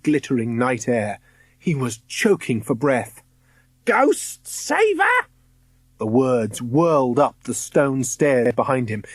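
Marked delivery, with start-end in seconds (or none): 3.8-5.0 high, slow, drawn-out witch voice; eerie hunter call. A narrator's reading. Ghost hunter calling up the stairs, eerie and slow.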